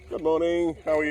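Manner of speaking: loud, high-pitched hello to passers-by; calling out a greeting. Real, not acted.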